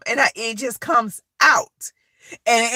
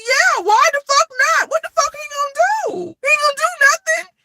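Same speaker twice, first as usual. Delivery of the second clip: defiant retold outburst; 13 semitones higher, 4 dB louder than usual. Retells defying the principal.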